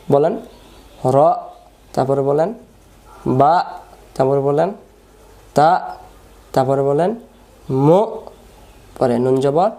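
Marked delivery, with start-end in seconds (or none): 1.1-1.2 র cut short; hard hamza stop. Shown as a demonstration. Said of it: "আওয়াজ শক্ত". 3.4-3.5 বা punched and cut short; hard hamza stop. Shown as a demonstration. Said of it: "আওয়াজ শক্ত". 5.6-5.7 তা loud and abrupt with glottal stop; hard hamza stop. Shown as a demonstration. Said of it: "আওয়াজ শক্ত". 7.9-8.0 মু loud and abrupt with glottal stop; hard hamza stop. Shown as a demonstration. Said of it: "আওয়াজ শক্ত".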